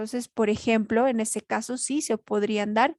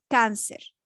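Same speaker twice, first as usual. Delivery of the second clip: cáncer with "cán" stressed; stress on penultimate syllable. Shown as a demonstration. Teacher giving an example of a grave word, stress on "cán" in cáncer. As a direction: lean on the first syllable of cáncer. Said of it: "está sobre la penúltima sílaba".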